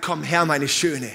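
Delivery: slow, coaxing tender call; the groom coaxing his bride; luring softly. Acted. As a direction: lure her gently with love. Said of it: "er lockt sie und sagt".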